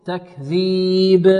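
very slow تكذيب with an echoed b; bounced final ba. Shown as a demonstration. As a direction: bounce the last letter of تكذيب. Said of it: "مقلقلة". (قلقلة الباء في تكذيب)

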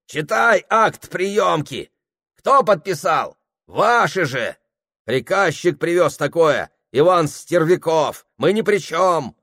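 deflect the blame loudly; defensive clerks. Acted. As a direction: clerks blaming Ivan Stervyakov.

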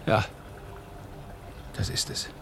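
breathed out, almost soundless; soft whispered insight; whispered realization. Acted. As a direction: whisper it as it dawns on you.

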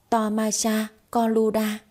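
sulky nonsense chant; pouting mock spell. Wife mocking the couple with a fake spell, pouting. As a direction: spit out fake spell words with a pout. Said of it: "Cô bĩu môi".

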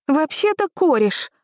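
high, indignant retort. A narrator's reading. Girl corrects the stranger, indignantly and high. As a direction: bristle at being called a granddaughter. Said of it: "возмутилась я".

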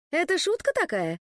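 mild outraged disbelief; indignant. A narrator's reading. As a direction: scoff at the very idea. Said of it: "возмутилась Лена".

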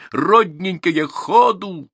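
loud, high-pitched coaxing call; urging on. A narrator's reading. Herder hurrying his beloved cattle, urgent high call. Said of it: "торопил он".

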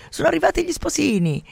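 high, loud call across the garden; announcing cry. Acted. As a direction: call out the arrival. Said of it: "sente un grido". (un grido acuto che annuncia gli sposini)

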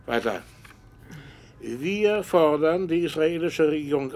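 measured dictation, phrase by phrase; dictating. Acted. Professor dictates statement to secretary.

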